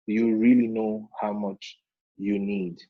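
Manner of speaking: slow, deliberate question stressing "really". Real, not acted. Teacher putting the question back to students, stressing "really". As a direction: ask it slowly, with weight on "really". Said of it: "I put emphasis on the word really".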